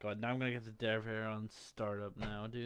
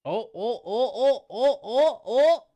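rising oh oh, louder and higher; excited yelling; 9 semitones higher, 14 dB louder than usual. Real, not acted. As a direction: build the yells to a peak. Excited game moment, building yells.

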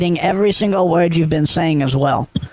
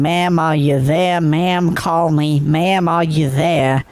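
slow mock imitation of the caller's nagging; slower than usual. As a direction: drawl it out like the pestering caller. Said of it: "all the text messages I have are you saying".

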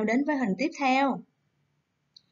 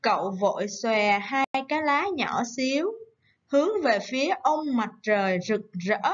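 model reading. Shown as a demonstration. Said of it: "đọc theo cô đoạn văn mình sẽ viết nha".

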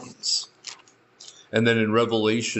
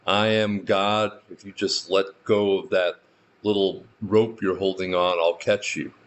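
voice of God; 3 semitones lower than usual. Retold or imitated. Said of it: "heard a voice from above saying".

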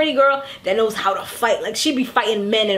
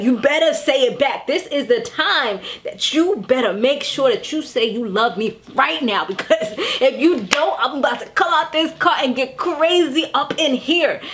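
mock jealous threat. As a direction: imitate a possessive wife warning her husband. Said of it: "That's the kind of vibe".

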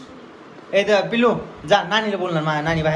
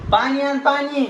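calling out; 8 semitones higher, much slower than usual. Real, not acted. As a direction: call out for the water, raised and higher. Calling again for water. (पाणी मागताना हाक मारणे)

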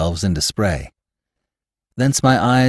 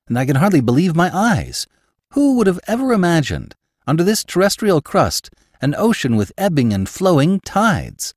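amazed; 8 semitones higher, 3 dB louder than usual. A narrator's reading. Axel marvels at the underground sea.

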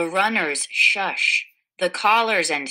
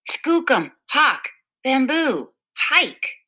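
calling the dogs; 7 semitones higher than usual. Acted. Girl urges her team home.

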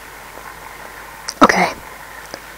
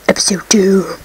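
whisper; 5 semitones lower than usual. Acted. Mock dramatic whisper in intro.

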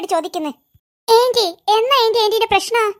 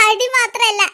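laughing; slower than usual. Acted. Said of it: "ഇങ്ങനെ ചിരിക്കുകയാണോ വേണ്ടത്?".

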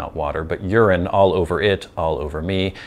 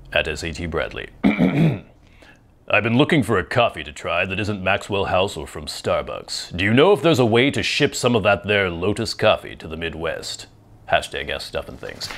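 movie trailer voice. Acted. Vlogger reading a coffee question as a movie trailer announcer. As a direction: lean into a dramatic trailer announcer. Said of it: "my announcer voice, or my, like, movie trailer voice".

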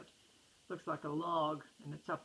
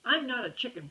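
mild protest; 5 semitones higher, 8 dB louder than usual. Acted. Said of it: "protested Brother".

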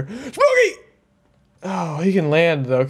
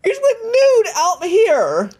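laughing; 12 semitones higher than usual. Real, not acted. Kid still laughing at dad.

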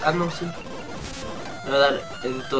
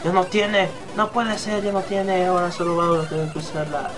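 raised, energetic battle commentary; mock play-by-play; 3 semitones higher than usual. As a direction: narrate the fight like a sportscaster.

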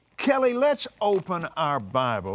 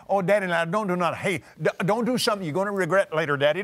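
pleading daughter; much faster than usual. Retold or imitated. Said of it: "She'd start pleading her case to me".

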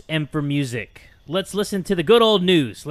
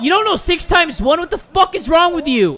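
much higher, louder disbelieving shout; exasperated yell; 9 semitones higher, 4 dB louder than usual. Real, not acted. The angry dad shouting at his kid over six times one.

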